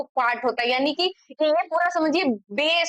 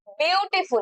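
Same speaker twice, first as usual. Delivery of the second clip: ब्यूटीफुल higher, with beau, ti and ful marked off; syllables apart; 4 semitones higher than usual. Shown as a demonstration. Teacher showing the three parts of beautiful, syllables apart. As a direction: mark each syllable of ब्यूटीफुल. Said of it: "फुल अलग pronounce करते हैं".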